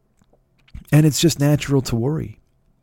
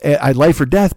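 ordinary talk, nothing marked

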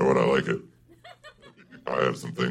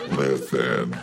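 feminine devil voice. Acted. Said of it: "it's a fun voice to do".

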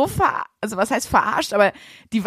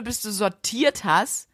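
ordinary delivery

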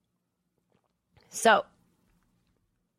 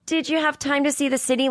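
higher, mock sympathetic reporter question; 7 semitones higher than usual. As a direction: imitate a pitying interviewer. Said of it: "sympathy in your voice".

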